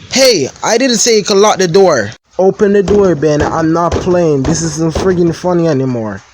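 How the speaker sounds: loud, high shouting through the door; locked-in cousin shouting at Ben; panicked yelling. Acted. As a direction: pound on the door and yell.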